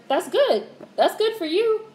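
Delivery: sarcastic-sounding praise. Real, not acted. Replying to a viewer.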